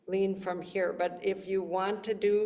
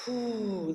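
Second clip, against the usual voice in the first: blowing whoo. Shown as a demonstration. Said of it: "like you're blowing out birthday candles".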